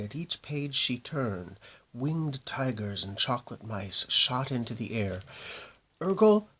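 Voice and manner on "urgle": high, loud panicky shriek; shrieked spell. A narrator's reading. Hinchati panicking amid flying tigers, shrieking the spell. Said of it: "shrieked Hinchati".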